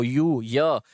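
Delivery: "यू" नहीं, सिर्फ़ "य" की आवाज़; "यू" का पहला अक्षर "य" अलग से बोलो; first sound only. Shown as a demonstration. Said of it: "यू पूरा नहीं बोलना होता". ("य" को "यू" से छोटा, सिर्फ़ शुरुआती ध्वनि)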